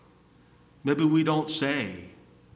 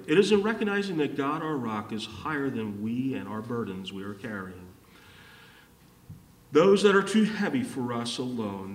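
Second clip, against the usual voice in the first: quick restatement; 2 semitones lower than usual. Real, not acted. Preacher saying the point this way for the congregation, quick restatement. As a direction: restate it in one flowing, lowering run.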